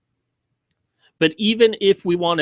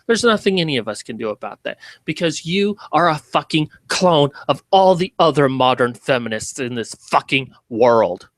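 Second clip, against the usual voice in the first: ordinary talk, nothing marked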